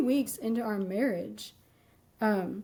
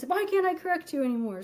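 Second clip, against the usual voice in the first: retold angry outburst, faster; 5 semitones higher, faster than usual. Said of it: "And so he does this".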